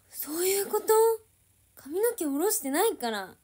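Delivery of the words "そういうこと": high, loud astonished question; real surprised realisation. Real, not acted. Streamer suddenly understanding the dark screen, real surprise. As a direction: blurt it high as it suddenly clicks.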